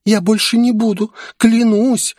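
high, anxious begging; pleading. Acted. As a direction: beg him to stop, voice up. Demoness begs forgiveness. (высокая испуганная мольба)

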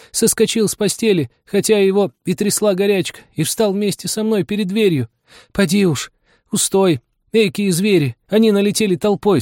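put-on high boy's voice, indignant then breathless in the telling; an excited apprentice defending himself, voiced high. A narrator's reading. Apprentice tells master how he fought the fire, high excited boy's voice. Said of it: "Он с возмущением ответил".

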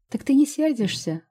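high, loud stunned question. A narrator's reading. Жена, поражённая, что муж не сердится, переспрашивает ошарашенно. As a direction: blurt it out in disbelief. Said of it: "ошарашенно спросила я".

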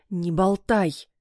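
short cutting-in reprimand; curt rebuke. A narrator's reading. Mistress interrupts the gushing maid, curtly. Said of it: "одёрнула я".

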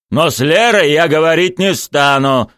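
a touch of hurt pride; slightly hurt. A narrator's reading. General refusing to talk to his ex-wife, slightly hurt. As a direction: let a little offence show. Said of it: "с лёгкой обидой в голосе".

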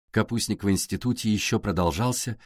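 ordinary delivery

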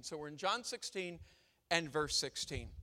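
ordinary delivery

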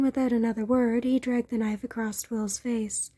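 plain reading voice

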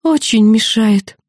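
slow, reluctant squeeze-out; forced out slowly. Acted. Scared student admitting the monster bothers her, slow forced reply. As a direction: drag the words out timidly. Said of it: "выдавила я из себя".

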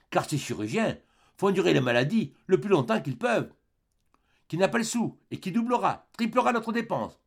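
an aggrieved wife's rising tirade; scolding wife. Acted. Wife scolds husband over the stranger.

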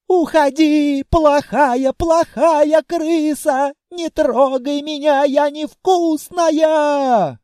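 put-on high, loud, slow childish begging; whimper-plead like a scared child; frightened pleading. A narrator's reading. Cornered dragoness pleading with the orc, high scared whine.

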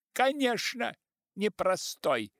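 high, loud chiming agreement; ex-wife. Acted. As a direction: chime in high and eager.

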